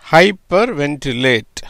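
ஹைப்பர் வென்டிலேட் said slowly, parts kept apart; slow demo. Shown as a demonstration. Teacher demonstrating the word to students, slow and careful. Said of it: "அதனால எப்படி வருது?".

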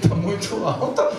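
high, laughing complaint to God; hammed-up plea to the Lord; mock pleading prayer. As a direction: play the broke believer begging God. Voicing a poor churchgoer praying.

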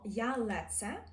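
«я леце» slowly with a hard ц; teacher shows the hard ц; hard Polish sounds. Shown as a demonstration. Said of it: "ми кажемо".

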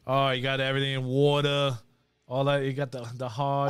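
lightly put-on Boston accent. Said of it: "You can hear the Boston accent".

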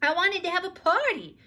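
put-on high, loud little girl's voice; girl explaining her party; child explaining. A narrator's reading. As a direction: explain it innocently like a small child. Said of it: "explained Ramona".

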